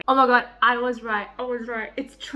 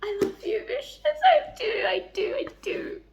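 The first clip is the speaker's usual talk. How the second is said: mock swoon; 10 semitones higher than usual. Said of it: "I'm just like".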